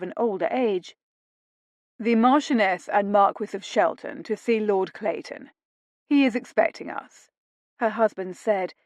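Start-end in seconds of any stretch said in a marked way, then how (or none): 2.0-7.3 haughty. Acted. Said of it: "using a haughty tone".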